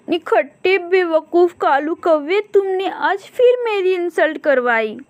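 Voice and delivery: high, scornful scolding; scolding crow wife. Acted.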